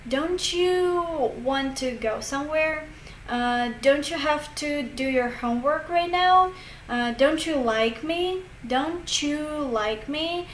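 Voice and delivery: each "don't you" said as "donchu"; linked CH sound. Shown as a demonstration. Teacher listing examples for learners, "don't you" as "donchu". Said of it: "You'll hear ch".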